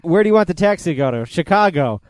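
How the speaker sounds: quick, lightly acted smart-aleck; mock smart-ass. Retelling the taxi stand guy needling Neil, mock smart-ass. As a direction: rattle it off like a wise guy. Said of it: "being like a smart ass".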